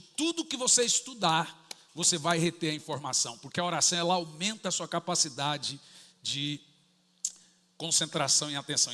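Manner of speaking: ordinary talk, nothing marked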